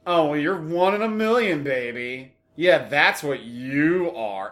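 dripping sarcasm, slow on the last line; sarcastic. Shown as a demonstration. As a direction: sneer it like a mock compliment. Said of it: "Listen to it with this inflection".

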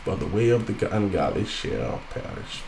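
emphatic, measured Bible reading; scripture reading. Acted. Reads scripture aloud to congregation.

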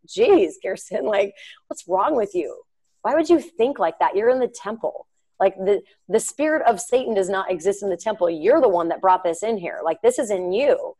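lightly acted telling-off; retold inner reproach; judgmental self-scolding. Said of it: "So then I get all judgmental".

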